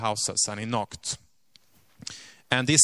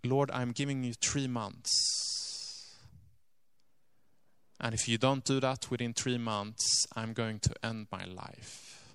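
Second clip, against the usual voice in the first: hushed ultimatum; 6 dB quieter than usual. Retold or imitated. Lady's ultimatum to God.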